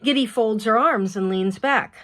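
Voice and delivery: ordinary delivery, nothing marked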